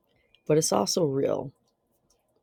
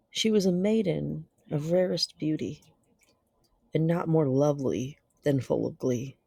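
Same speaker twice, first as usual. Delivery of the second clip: measured, dramatic reading with long pauses; gothic story narration. Acted. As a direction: narrate a dark classic tale, letting phrases hang. Reads a Gothic tale aloud.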